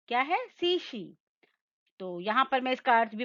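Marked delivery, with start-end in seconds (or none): 0.5-1.2 "शीशी" higher, both vowels held long; repeat-after-me demo. Shown as a demonstration. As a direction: say "शीशी" in two long, careful syllables. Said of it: "आप भी मेरे संग संग दोहराइए".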